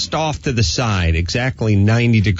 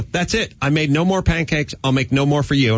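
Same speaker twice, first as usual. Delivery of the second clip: higher-pitched mock scolding with a hint of German accent; lightly voiced German mom laying down the law; German mom's ultimatum; 5 semitones higher than usual. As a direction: imitate a fed-up German mother. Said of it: "she would go".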